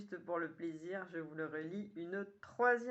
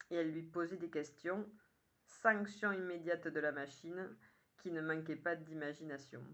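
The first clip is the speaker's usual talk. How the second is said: measured poem reading with pauses between lines; poem recitation; 3 dB louder than usual. Acted. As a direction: recite it line by line, clearly phrased. Reads own poem aloud.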